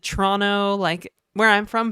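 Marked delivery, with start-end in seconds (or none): 0.0-0.8 Toronto with the second T dropped; "Toronto" squeezed down to "Tronno"; local pronunciation. Shown as a demonstration. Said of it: "most people pronounce it".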